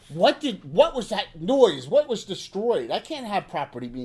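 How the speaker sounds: a flustered landlady fussing over damage; upset innkeeper. Acted. Rose voiced as upset NPC.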